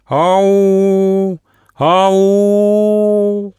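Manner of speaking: high, loud far-off call for help; plaintive call. A narrator's reading. Hidden Auka calls out plaintively to lure the travellers. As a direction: call out from among the rocks. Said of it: "жалобный крик".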